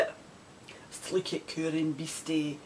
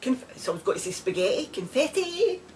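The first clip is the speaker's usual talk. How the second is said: mock fanfare; 13 semitones higher than usual. Mock celebration after her news.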